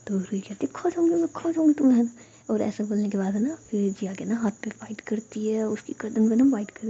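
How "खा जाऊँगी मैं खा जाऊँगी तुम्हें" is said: high-pitched mock menace; teasing, high insistence; playful threat. A narrator's reading. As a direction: threaten playfully to gobble someone up. Playful threat to eat girlfriend.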